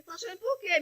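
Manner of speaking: mother asking her crying daughter why she weeps; tearful. Real, not acted. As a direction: ask it while crying yourself. Quoting herself to crying daughter.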